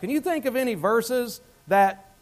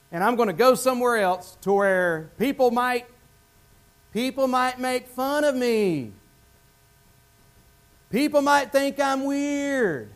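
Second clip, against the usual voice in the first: reluctant missionary; 2 semitones higher than usual. Pretend. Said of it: "Jesus didn't talk like that".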